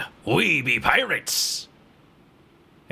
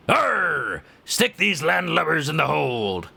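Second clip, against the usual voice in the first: lightly voiced pirate growl of an order; pirate captain; slower than usual. Pirate captain orders prisoners locked up, hammed-up pirate voice.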